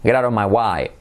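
mock Australian, "way" sounded as "why"; Australian English. Shown as a demonstration. Teacher imitating Australians for the class, Australian accent. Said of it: "en el inglés australiano dicen".

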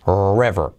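river said as ru-iver, a U glide after the R. Shown as a demonstration. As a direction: slide through a U after the R of river. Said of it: "de river pasas a". (river con U después de la R)

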